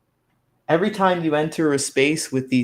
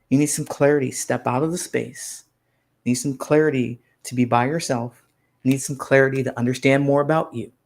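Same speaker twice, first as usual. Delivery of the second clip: ordinary talk, nothing marked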